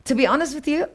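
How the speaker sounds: normal talking voice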